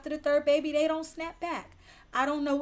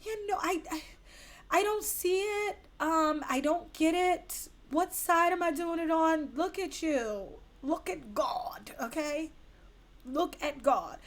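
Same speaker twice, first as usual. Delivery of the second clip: higher-pitched puzzled friend; a hesitant, higher imitation of a confused friend; friend's confusion; 3 semitones higher than usual. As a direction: quote her being lightly baffled. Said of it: "She's like".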